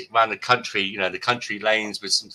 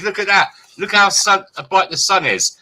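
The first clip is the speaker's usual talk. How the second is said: mock cop voice; 9 semitones higher, 6 dB louder than usual. Mimicking the cop's remark.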